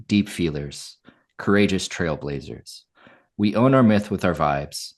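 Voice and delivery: measured, declaiming manifesto read; lightly declaimed mission statement; podcast manifesto read. Acted. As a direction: recite it like a show's creed. Reads show manifesto.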